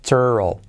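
"turtle" said like "churro" with a faint final L; English pronunciation. Shown as a demonstration. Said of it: "que se pronuncia así". ("turtle" pronunciado casi como "churro")

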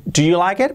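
linking demo; linked do. Shown as a demonstration. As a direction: link the words smoothly. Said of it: "prácticamente una R suave".

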